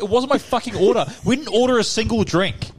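high, indignant retold rant; going off angrily. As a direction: re-enact losing it over a wrong order. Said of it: "just going off at this".

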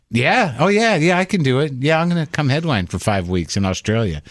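mock eager high yes-man voice; overeager, bluffing confidence; eager fake yes. Comic telling host, mock overeager yes. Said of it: "you're like".

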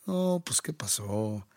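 a quick hint of chilango street talk; chilango accent. Shown as a demonstration. Asked to imitate accents, a light chilango accent. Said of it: "el chilango".

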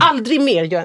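high, loud imagined warning; indignant shouting. Acted. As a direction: warn them off in a friend's defence. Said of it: "också hade skrikit sådär". (upprörd, hög tillsägelse)

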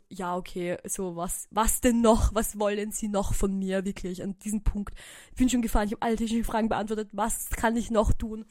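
mock grumpy outburst; grumpy complaint. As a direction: vent your frustration at him, half-joking. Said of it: "ich war wirklich schon ein bisschen grantig".

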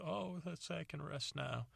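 lightly voiced relieved mother; relieved mom. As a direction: let the mother rest easy. Mother relieved at son's promise.

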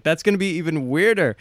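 imitating an appalled date; retold exasperated objection. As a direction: push back in mock dismay, pitch lifted. Retells her objection to his offer.

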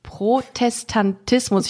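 „Protestantismus“ langsam, Silbe für Silbe; „Protestantismus“ vorsichtig und gedehnt gesprochen; langsam ausgesprochen. Shown as a demonstration. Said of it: "ein Problem mit dem Wort". („Protestantismus“ bedächtig, jede Silbe einzeln)

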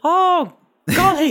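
high, slow, hammed-up gasp; hammed-up high "golly"; character exclamation. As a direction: play it big and shocked. Patrick reacts to the smell.

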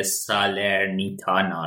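"سالرنیتانا" said slowly, every syllable sa-ler-ni-ta-na spelled out clearly; careful pronunciation. Real, not acted. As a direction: take care to get "سالرنیتانا" right, syllable by syllable. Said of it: "سعی کردم این دفعه درست تلفظش کنم".

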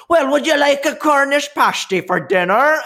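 high, chirpy mum voice; lightly mocking mother; mom interrupting. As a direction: do a cheery mum popping in.

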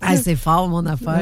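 voix qui s'éteint un peu; voix qui lâche. Real, not acted. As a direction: parler avec la voix qui flanche. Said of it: "Je suis en train de perdre la voix". (voix fatiguée qui lâche)

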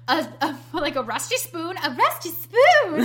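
high, loud quote, laughing; cartoon voice. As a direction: ham up the cartoon line. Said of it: "He's like".

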